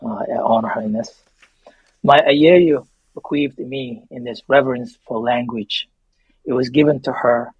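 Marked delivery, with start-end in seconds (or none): 2.0-7.5 reading from his memoir. Acted. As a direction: read the memoir passage with reverence. Begins reading memoir excerpt.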